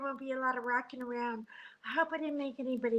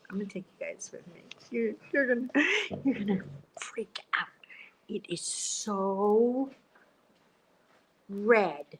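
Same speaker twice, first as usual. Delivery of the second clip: whisper. Real, not acted. Sneaking out to film hallway.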